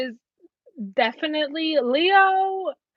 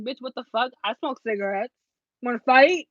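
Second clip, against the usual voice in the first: mock tough smoker. Smoker girl challenges the classmate, lightly voiced sass. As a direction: act out a smoker daring her classmate to fight. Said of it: "This is me telling your ass".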